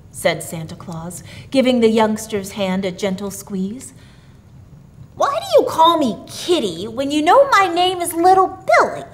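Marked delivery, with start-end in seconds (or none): 5.1-9.0 put-on high, puzzled little boy; high-pitched boyish question; child's voice. A narrator's reading. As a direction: ask high like a curious child. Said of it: "asked the boy".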